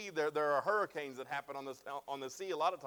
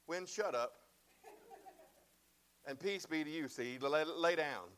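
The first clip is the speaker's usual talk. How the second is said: calm rebuke; 2 semitones lower, 3 dB quieter than usual. Acted. Jesus rebuking the wind and sea, softly firm. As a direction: hush the storm like a restless child.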